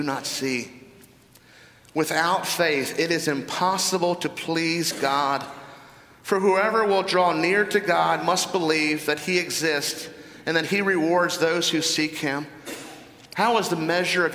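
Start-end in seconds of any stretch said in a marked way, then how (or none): 1.9-12.5 measured scripture reading, taking time; slow reading. Real, not acted. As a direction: read it slowly and deliberately. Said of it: "let me read this slowly".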